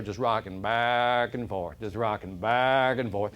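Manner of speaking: slow, drawn-out rocking rhythm; slow storytelling. A narrator's reading. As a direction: stretch it out lazily. Describing old man rocking.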